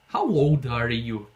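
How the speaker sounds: slow, careful English model; slow model phrase. Shown as a demonstration. Teacher repeats the question slowly for the class. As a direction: spell it out slowly. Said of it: "Imagina você perguntar".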